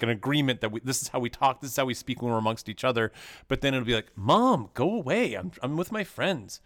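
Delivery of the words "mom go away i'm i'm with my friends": higher-pitched mock teen whine at a parent; annoyed teenager. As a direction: shoo mom away like an embarrassed teen. Acting a teen shooing parent away.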